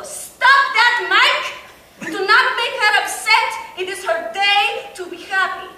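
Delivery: high, loud grandmotherly scold; loud mock scold from grandma. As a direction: snap at Mike like grandma. Grandma scolding Mike in retelling.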